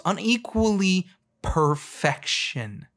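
drawn-out slow emphasis on each syllable; slow, weighty declaration; slow and deliberate. Shown as a demonstration. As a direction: spell it out slowly for them. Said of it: "Let me say that slower for you".

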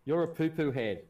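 put-on loud, high childish taunt; childish insult. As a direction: yell it like a bratty kid. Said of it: "Bolt goes".

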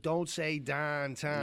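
slow, drawn-out Pittsburgh "downtown"; Pittsburgh accent demo. Shown as a demonstration. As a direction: stretch "downtown" with flattened Pittsburgh vowels, like "dahntahn". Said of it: "see if you get me talking normal".

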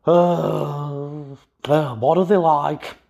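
lightly voiced dad tutting; tutting at the players, half-amused; mock dad on camera. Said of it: "kind of went".

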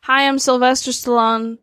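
a hint of Stallone; light Stallone voice; lightly voiced Stallone; Stallone impression. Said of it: "pretty good Sylvester Stallone impression".

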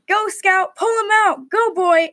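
encouraging. A narrator's reading. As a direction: egg the horse on with rising urgency. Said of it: "encouraged Charles".

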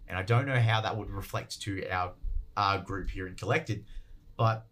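speaking through a cough; coughing fit. Real, not acted. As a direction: voice strained between coughs. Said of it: "I apologize I'm coughing so much".

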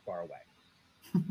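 low, slow dramatic trailer voice; movie narrator voice. Pretend. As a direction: draw it out like an epic opening crawl. Echoing the Star Wars opening.

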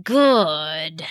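whispering the second good; a sinister hiss of a whisper; whispered gloat. Acted. Wizard gloating, whispered repeat.

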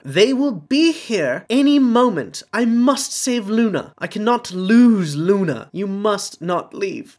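put-on high, loud, frantic old man; desperate father. A narrator's reading. Xenophilius blocks the stairs, high, loud and frantic. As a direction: plead frantically, slowing at the end.

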